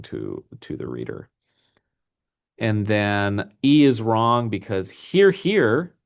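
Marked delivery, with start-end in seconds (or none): 4.9-5.9 high, loud "hear, hear" as a cheering crowd; a rousing hear, hear; mock cheer of approval. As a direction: call out "hear, hear" like an approving audience. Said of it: "imitating a chorus of approval".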